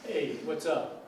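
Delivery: casual New York accent greeting; teacher imitating a New Yorker. Shown as a demonstration. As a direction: demonstrate a slow New York "what's up". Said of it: "a New York accent would be more like this".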